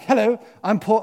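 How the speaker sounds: hammed-up upper-class introduction; posh Paul. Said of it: "I don't know why he's posh".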